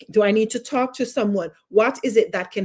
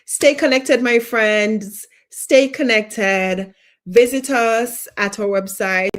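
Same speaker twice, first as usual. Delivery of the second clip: upbeat sign-off; 2 semitones higher, 5 dB louder, slower than usual. Real, not acted.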